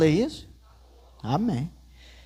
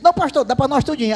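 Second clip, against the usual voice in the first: eager generosity; 7 semitones higher, 4 dB louder, faster than usual. Retold or imitated. Gildo generously sharing food.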